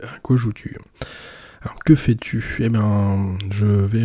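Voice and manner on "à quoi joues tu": breathy, secret title tease; À quoi joues-tu? whispered like a secret. Acted. Whispered show title intro.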